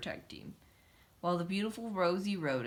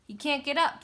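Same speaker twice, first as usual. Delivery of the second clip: high exclaiming mouse; 8 semitones higher, 6 dB louder than usual. A narrator's reading. Another mouse.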